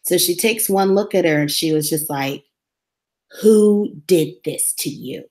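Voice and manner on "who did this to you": grave, level question; dead serious. Retold or imitated. Doctor asks the young patient gravely, dead serious. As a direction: ask it gravely, no joke. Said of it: "dead serious".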